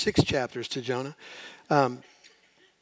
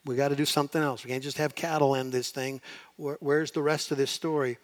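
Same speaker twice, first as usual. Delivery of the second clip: puzzled reader. Retold or imitated. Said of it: "It should leave you going".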